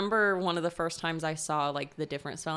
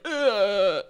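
disgusted groan; 3 semitones higher, 7 dB louder than usual. Real, not acted. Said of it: "That's why I was like".

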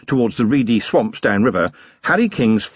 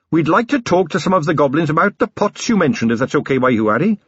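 lightly voiced polite captain; 5 semitones higher than usual. Carrot asks politely.

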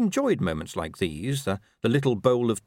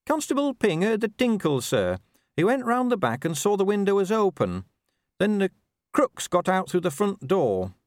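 brisk, higher dwarf voice reporting to her boss; eager young officer, pitched up; dwarf officer Cheery; 10 semitones higher than usual. Acted.

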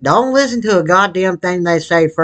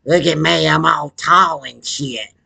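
mocking a rival. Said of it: "I got a stupid fucking voice".

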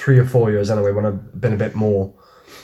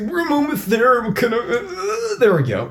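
urgent voice; 11 semitones higher than usual. Retold or imitated. Voicing urgent arriving character.

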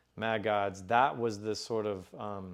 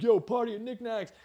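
casual announcement; 10 semitones higher, 3 dB louder than usual. Retold or imitated. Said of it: "and he's like".

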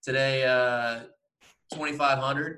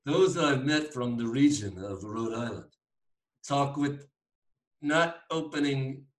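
hint of Rhode Island talk through the teeth; mock Rhode Island accent; 2 semitones higher than usual. Co-host describing Rhode Islanders' speech, mock Rhode Island accent. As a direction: lightly imitate tight-mouthed Rhode Island speech. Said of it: "not opening their mouth and through their teeth".

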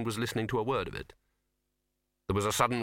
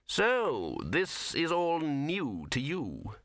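slow patrician; 3 semitones higher, much slower than usual. A narrator's reading. Patrician probes the tense pair.

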